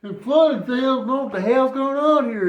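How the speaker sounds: excited retelling. Retold or imitated. Retelling the flood, loud.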